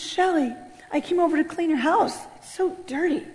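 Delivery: lightly voiced kind visitor; kindly suitor. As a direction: offer it gently, softly. Acting the visiting man's kind offer.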